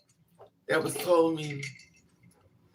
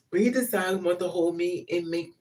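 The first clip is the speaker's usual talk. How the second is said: normal talking voice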